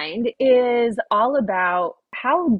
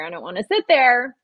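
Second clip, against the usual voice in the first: insistent repeat; 3 semitones higher than usual. Retold or imitated. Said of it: "my mind was saying".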